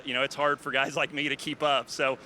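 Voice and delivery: breathless after the race; out of breath. Real, not acted. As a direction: talk while catching your breath. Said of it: "I'm out of breath. You can probably hear that".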